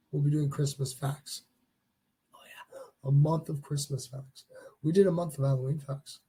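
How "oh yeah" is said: breathy little aside; whispering. Real, not acted. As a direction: whisper it, barely there.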